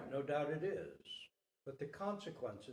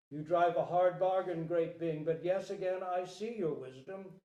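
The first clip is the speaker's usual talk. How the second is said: grand, loud proclamation to the court; royal decree; 2 semitones higher, 8 dB louder than usual. Acted. King proclaims protection of all beings to courtiers, loud. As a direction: announce it to the whole court.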